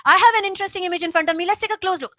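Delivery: loud, forceful, too much energy; overly loud reading. Shown as a demonstration. Coach showing students the wrong way, too loud and forceful. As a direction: push it out hard, the wrong way. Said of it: "You don't have to say it loudly".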